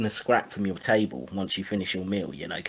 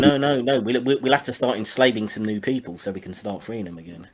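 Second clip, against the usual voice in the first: mock alarm; 3 semitones higher, 6 dB louder than usual. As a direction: ham up the fake outrage as a joke. Sarcastic mock of slaveholders' logic.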